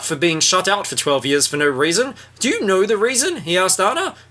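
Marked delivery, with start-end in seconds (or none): 2.4-4.2 hammed-up Duke. Voices the Duke from the book.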